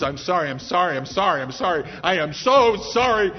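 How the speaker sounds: a frantic man pleading guilty in court, apologizing over and over; desperate apology. Acted. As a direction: beg forgiveness, rising in panic. Martin pleading before the judge.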